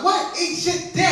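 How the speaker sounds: high-pitched incredulous echo; baffled. Acted. Customer puzzling over garbled insult, baffled.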